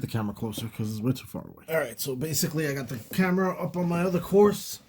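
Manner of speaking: distant, off-mic voice; speaking from across the room; far from mic. Real, not acted. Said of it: "So if I sound far away".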